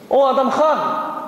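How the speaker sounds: mock a youngster hailing a man as an equal; imitating cheeky kid. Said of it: "벌써 이 목소리가". (건방진 아이가 부르는 흉내)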